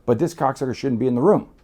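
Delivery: loud, high angry rant; furious outburst. Retold or imitated. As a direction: rage that he's even in the room. Demanding Mario leave.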